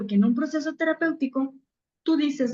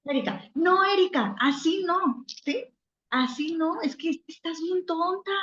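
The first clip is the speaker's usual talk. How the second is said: higher, mock-scolding friend who has lost patience; exasperated friend scolding; 4 semitones higher than usual. A friend over drinks scolding you, exasperated and higher. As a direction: scold her like a fed-up friend, a bit higher. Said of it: "tu amiga empieza a enojarse".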